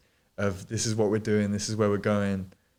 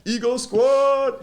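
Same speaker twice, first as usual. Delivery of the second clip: laughing cheer; 13 semitones higher, 6 dB louder, much slower than usual. Real, not acted. Joking about his big ego.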